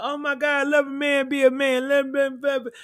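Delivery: lightly put-on gushing fan, mocking. Mocking fans who excuse Ray J, gushing put-on voice. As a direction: sneer as you play a silly fan.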